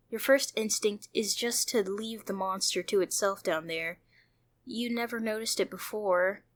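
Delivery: steady second-person story reading; measured storyteller reading a text game; story narration. A narrator's reading. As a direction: read the game's story out to the viewer.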